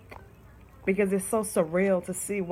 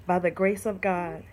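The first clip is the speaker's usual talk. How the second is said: poem reading. Shown as a demonstration. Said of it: "I'm gonna read it to you".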